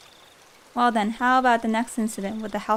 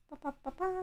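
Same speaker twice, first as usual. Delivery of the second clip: idle vocal filler; 8 semitones higher, 15 dB quieter, faster than usual. Real, not acted. Idle vocal filler while fixing screen.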